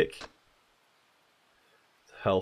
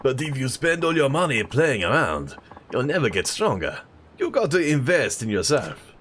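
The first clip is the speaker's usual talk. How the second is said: put-on French accent; 4 semitones higher than usual. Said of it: "how to do an old French accent".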